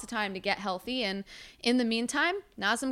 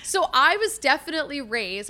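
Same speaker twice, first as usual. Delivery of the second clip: passionate yelling; 3 semitones higher than usual. Real, not acted. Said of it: "I'm yelling 'cause I'm so passionate".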